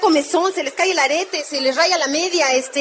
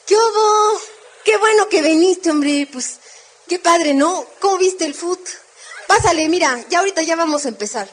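energetic greeting; 2 semitones higher than usual. Shown as a demonstration. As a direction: greet them brisk and full of energy. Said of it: "Prisa, chavos".

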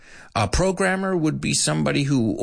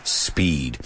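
announcer shout; 6 semitones lower than usual. Acted. Sound effect shout with music.

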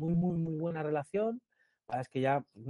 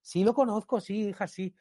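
higher, fussing lady voice; excited lady; 4 semitones higher than usual. Retold or imitated. Lady answering her daughter, higher excited voice. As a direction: brush off the daughter eagerly. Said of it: "señora to daughter".

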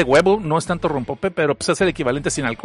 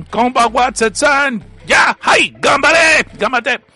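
mock cheer; 7 semitones higher, 4 dB louder, much slower than usual. Lee una porra de un chat.

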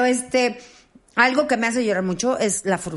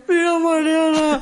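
high, slow, laughing half-sob; choked up showing a puppy; teary gush; 7 semitones higher, 4 dB louder, slower than usual. Retold or imitated. Showing the puppy to Mariana, teary. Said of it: "y yo".

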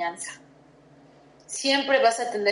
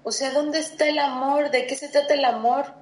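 pleading with God; 4 semitones higher than usual. Retold or imitated. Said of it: "yo le decía a Dios".

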